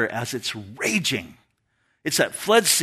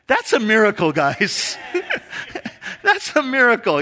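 thrilled, ringing declaration; amazed; 7 semitones higher than usual. Real, not acted. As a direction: proclaim the miracle in awe. Marvelling at God's guidance.

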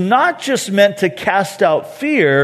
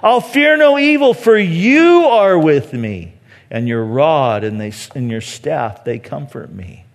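correct version, sincere; 4 semitones lower than usual. Acted. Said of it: "No, that's not what he says".

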